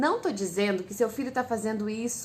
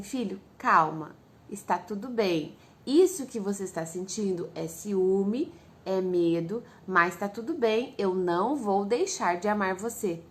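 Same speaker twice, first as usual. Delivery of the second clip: calming mother; 2 semitones lower than usual. Acted. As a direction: ease the child down gently and slowly. Mother soothing jealous child. (mãe acalmando o filho com calma e devagar)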